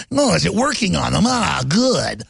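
lightly voiced scheming sidekick; a hint of a sly schemer; Grimer Wormtongue. A schemer checking whether his guilt trick works, lightly voiced sly villain. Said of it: "like Grimer worm tongue".

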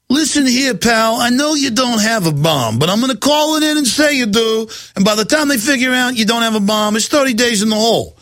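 lightly voiced mobster making a threat; mock goon. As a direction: sneer like a movie heavy. Mocking a thug threatening protesters.

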